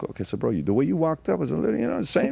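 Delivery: high, rushed, jittery reassurance; nervous high reply. Retold or imitated. Telling the fan it's okay, high and jittery. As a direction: squeak out that it's fine while still rattled.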